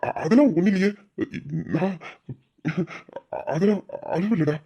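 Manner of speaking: halting, choked-up denial; tearful denial. Acted. Father denying to his son that he is crying, tearful. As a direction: stammer through held-back tears. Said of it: "ஏன் அழுகுறீங்க".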